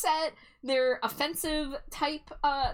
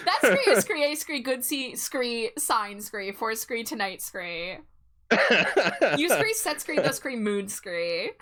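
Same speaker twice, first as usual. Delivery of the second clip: scree talk. Pretend. Mimics moo with scree.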